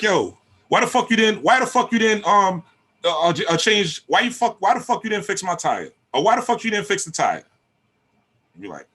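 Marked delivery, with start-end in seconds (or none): 0.0-7.4 put-on high, loud yelling girlfriend; mock screaming woman. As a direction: bark it at him like an angry partner. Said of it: "barking and screaming".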